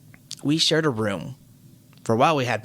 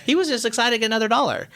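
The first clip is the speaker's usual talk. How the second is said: laughing; 11 semitones higher, 4 dB louder, faster than usual. Real, not acted. Laughing through it.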